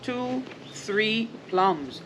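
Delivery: gentle, even storybook reading; reading to children. Acted. Parent reads The Very Hungry Caterpillar to the kids, gently. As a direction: read it like a bedtime picture book.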